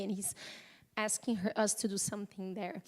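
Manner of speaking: words fading as tears come; choked up. Real, not acted. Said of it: "I just got emotional for a moment".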